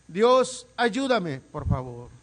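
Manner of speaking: loud, high plea to God; desperate cry. Acted. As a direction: cry out for help with everything left. Clamor final a Dios. (clamor desesperado, fuerte y agudo)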